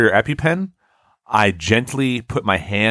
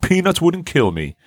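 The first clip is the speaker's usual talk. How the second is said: higher-pitched mocking brag; mock invincible boasting; 5 semitones higher than usual. Host teasing a friend who claims he's tough, mock boastful. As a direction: lightly mimic a friend acting invincible. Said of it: "pass yourself off as, like, invincible".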